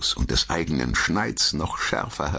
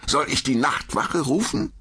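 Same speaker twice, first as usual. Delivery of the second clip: mocking threat; 11 semitones higher than usual. Traveler threatens attacker.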